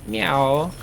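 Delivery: put-on retelling the joke, the boy meows like a cat; mock cat meow. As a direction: toss off a playful cat meow. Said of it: "He's pretending to be a cat".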